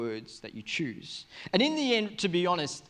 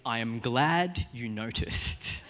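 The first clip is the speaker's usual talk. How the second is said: low, slow, deliberate delivery; pastor's measured reply; 5 semitones lower, slower than usual. Retold or imitated. Pastor answering the apology for a word on stage, measured reply. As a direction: space the words out, pitched low. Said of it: "He said".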